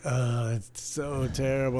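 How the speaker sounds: slow, drawn-out mock lament; exaggerated pity, dragged out slowly; mock sympathy. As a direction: imitate someone commiserating, stretching the words. Voices dealers' sympathy over small tip.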